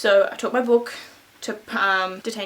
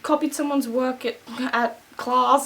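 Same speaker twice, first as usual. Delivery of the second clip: raised-pitch imitation of a crying child; retold tearful confession; mock bawling; 4 semitones higher than usual. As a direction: confess as if in tears, hammed up. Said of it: "and I'm bawling".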